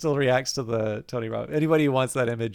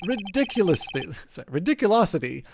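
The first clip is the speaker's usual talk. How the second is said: pompous CEO voice; 3 semitones higher than usual. Acted. Red White correcting himself.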